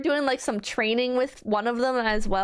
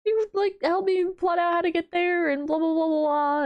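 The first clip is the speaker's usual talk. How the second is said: higher, fast eager mom voice; imitating her mom; 7 semitones higher than usual. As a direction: play the eager mother, lightly. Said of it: "And she's like".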